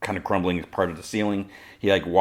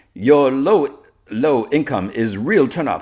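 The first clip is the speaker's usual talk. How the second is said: lightly voiced villainess, higher pitched; drawn-out, teasing jab at a foe; taunting villainess; 7 semitones higher, 6 dB louder, slower than usual. Villainess to Superman mid-fight, taunting.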